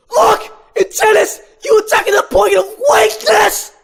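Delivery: high, loud mock-angry coach yell; high shouted lecture voice; Ken yelling. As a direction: bellow it like a hammy tennis bully. Ken character yelling in script.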